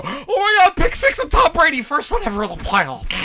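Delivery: mock excited fan. Mocking a friend's celebration of a pick six, mildly excited. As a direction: imitate his giddy reaction, lightly. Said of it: "you watching you go".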